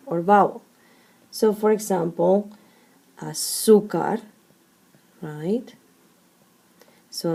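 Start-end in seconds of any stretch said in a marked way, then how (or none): 3.2-4.2 "azúcar" with ZÚ stressed; stress on second-to-last syllable. Shown as a demonstration. Teacher giving an example of the accent rule, stress on ZÚ. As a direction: lean on the middle ZÚ of "azúcar". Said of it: "the strong syllable is the second to last".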